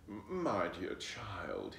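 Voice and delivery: slow, haughty fox; disgusted. Acted. Fox scolding Flossie, slow and disgusted. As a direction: talk down to the child with disdain. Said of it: "sounding right disgusted".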